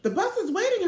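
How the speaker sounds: a teacher's call, lightly voiced. A narrator's reading. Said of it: "her teacher called".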